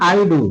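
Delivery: "I do" as its own group; separate first phrase. Shown as a demonstration. Teacher showing the first part to read, "I do" set apart. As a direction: stop after "do" before going on. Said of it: "पहले पढ़ना".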